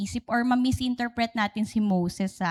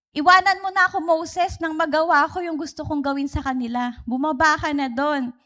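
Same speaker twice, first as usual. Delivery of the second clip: angry God; 3 semitones higher than usual. Retold or imitated. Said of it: "kung gaano kagalit yung Panginoon".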